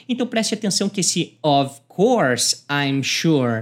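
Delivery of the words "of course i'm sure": "of" ending in a clear v sound, very slow; pronunciation demo of "of". Shown as a demonstration. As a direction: stress the v in "of". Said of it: "preste atenção aqui no of".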